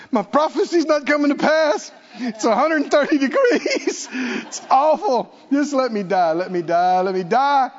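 hammed-up Jonah begging to die in the heat; mock despairing Jonah. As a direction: ham up a sulking prophet begging to die. Preacher voicing Jonah's despair.

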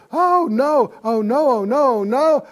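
high, loud panicky "oh no"; hammed-up fright, rising in alarm; mock panic. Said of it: "you'll go".

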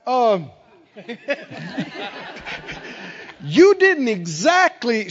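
laughing, slow, sheepish backdown. Retold or imitated. Angry man returning next day, sheepish laughing. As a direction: admit it through an embarrassed chuckle. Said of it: "He said".

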